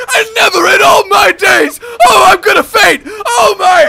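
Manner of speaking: high, loud fainting gentleman; scandalized gent. Retold or imitated. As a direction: clutch pearls and nearly faint. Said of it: "He's like".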